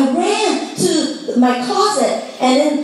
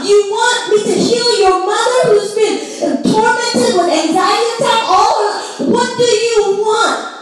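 rising preaching intensity; 5 semitones higher than usual. Acted. Preaching God's challenge, rising.

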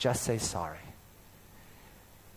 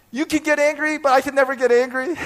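much higher, outraged protest; indignant; 10 semitones higher, 5 dB louder, faster than usual. Retold or imitated. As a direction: throw the unfairness back at her. Arguing with wife.

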